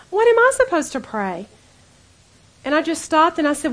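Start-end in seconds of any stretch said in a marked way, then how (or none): 0.1-1.5 laughing. Retold or imitated. Laughs while retelling the question.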